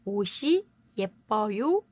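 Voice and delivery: 옷이 linked as o-shi before 예뻐요. Shown as a demonstration. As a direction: carry the ㅅ of 옷이 into the next vowel. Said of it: "이렇게 발음을 합니다". (옷이 예뻐요를 오시 예뻐요로 연음하여 발음)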